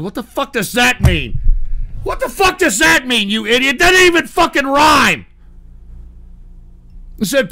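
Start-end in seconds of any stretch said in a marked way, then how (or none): 2.0-5.3 higher, heated scolding; indignant outburst. Real, not acted. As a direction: berate the bad poet loudly. Berates the poet.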